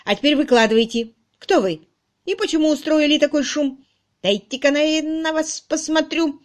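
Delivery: put-on a combative old charwoman squaring up; воинственно, громко; belligerent demand. A narrator's reading. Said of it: "она воинственно сказала".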